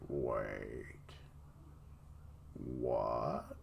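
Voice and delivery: low, incredulous what; disbelieving gasp of a word; stunned. Real, not acted. Shocked at the offer.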